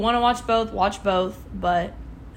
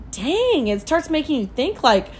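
high-pitched mock alarm, like sudden second thoughts; acted startled doubt; 7 semitones higher, 4 dB louder than usual. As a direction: voice the worried questioning, pitched way up and louder. Voicing your startled second thoughts.

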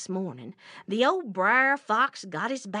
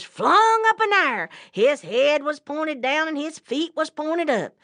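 raised, lively account of the mishap; excited storytelling; 5 semitones higher, 5 dB louder than usual. A narrator's reading. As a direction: call out each tumble brightly. Trap springs on the bear.

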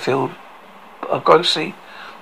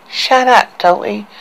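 shouting; 6 semitones higher, slower than usual. A narrator's reading. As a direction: yell at him to stop. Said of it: "shouted Aria".

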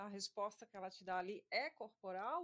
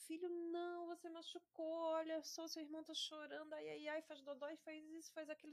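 lightly acted higher-pitched parent voice; mother gently scolding; 5 semitones higher than usual. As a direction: plead with a small child, in a retold mum voice. Mother voiced scolding her biting child.

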